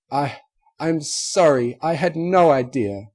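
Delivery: stammering apology, close to tears; tearful apology. A narrator's reading.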